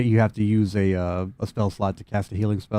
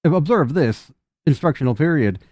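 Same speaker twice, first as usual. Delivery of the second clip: a little higher, stiff and polite; formal machine announcement; lightly voiced prim robot; 5 semitones higher than usual. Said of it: "He says".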